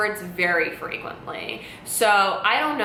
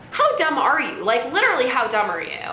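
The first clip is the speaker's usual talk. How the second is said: higher, heated repeat; mild mock yell at mom; retold angry yell; 5 semitones higher than usual. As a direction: fire it back in a fight. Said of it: "I'm screaming at her".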